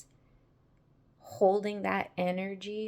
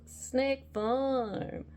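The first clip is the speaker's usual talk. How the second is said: laughing; 5 semitones higher, 4 dB quieter than usual. Real, not acted. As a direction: laugh into the words. Laughing through phrase.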